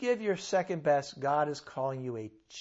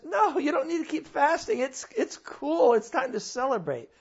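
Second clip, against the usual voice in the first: voicing God; 9 semitones higher, 5 dB louder than usual.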